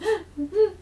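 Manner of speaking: high rising imitation of a silent cry; imitated child crying. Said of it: "애가 이렇게 ... 울고 있었대요".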